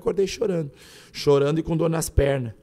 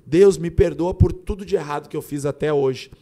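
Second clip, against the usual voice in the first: mildly raised pleading cry, loud at the start; retold plea to God; 5 dB louder than usual. Dreamer begging God's pardon for everything, retold cry. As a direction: call out for forgiveness, retelling it.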